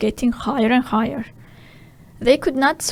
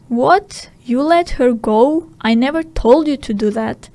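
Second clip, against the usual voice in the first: angry outburst; 5 dB louder than usual. Acted. Hook angry at pirates.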